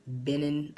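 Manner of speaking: Benin said as beh-NIN; unsure pronunciation. Real, not acted. Reading out African regions, unsure how to say Benin. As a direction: try Benin with short vowels, beh-NIN. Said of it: "hope I'm saying that right".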